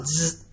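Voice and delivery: soft, low buzzing noise; imitated buzzer. Teller showing the rabbi's buzzer, a quiet imitated buzz. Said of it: "he had a buzzer".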